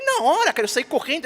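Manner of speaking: high, loud, excited burst at the start; eager rush. Retold or imitated. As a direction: author rushing off to write, loud and high. Retelling rushing off to write.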